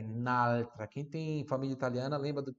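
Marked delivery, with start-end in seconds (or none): 0.0-0.9 altra with a drawn-out L; L bem puxado in altra. Shown as a demonstration. Teacher recalling Italian grandparents' speech, drawn-out L in altra. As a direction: linger on the L of altra. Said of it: "Com esse L bem puxado".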